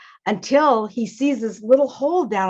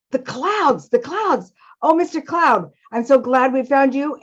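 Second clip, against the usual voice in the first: higher-pitched, eager storybook mouse; Father Mouse, delighted; 4 semitones higher than usual. Acted. Father Mouse greets Mister Cloud on finding him, delighted. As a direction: call out gladly as a relieved father mouse.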